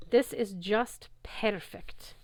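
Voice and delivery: put-on slow, savoured French-accented gloat. The Manticore gloats over the ambushed heroes in a slow French accent. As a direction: relish every word, French accent. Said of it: "the Manticore gloated".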